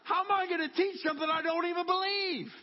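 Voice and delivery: laughing high, half disbelieving; incredulous laughing protest to Jesus. Retold or imitated. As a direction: laugh through the objection, pitch up. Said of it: "I said".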